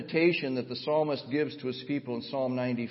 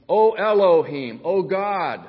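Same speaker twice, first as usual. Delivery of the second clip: loud, slow, raised invocation; crying out to God; 5 semitones higher, 9 dB louder, slower than usual. Acted. Preacher voicing the psalmist's plea to Elohim, crying out. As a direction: call out to God with full voice.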